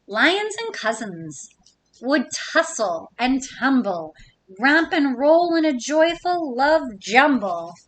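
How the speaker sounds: lilting rhyme read aloud; reading to children. Acted. Teacher reading a rhyming book to kids, lilting. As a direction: bounce the rhyme for little listeners.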